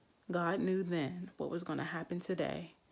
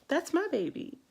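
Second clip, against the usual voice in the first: much higher and louder, bursting with joy; overjoyed cry; 11 semitones higher, 6 dB louder than usual. Retold or imitated. Mother marvels at her newborn, joyful squeal. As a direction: squeal it out in pure delight. New mom meeting her baby.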